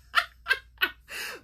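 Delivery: high-pitched giggling burst; real laugh. Real, not acted. Own laugh after earring bit.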